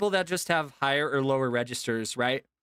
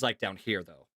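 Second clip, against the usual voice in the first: chest voice; 7 semitones lower, 3 dB quieter than usual. Shown as a demonstration. Showing chat his real talking voice, low in the chest. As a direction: lower voice sitting down in the chest. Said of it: "My actual talking voice is".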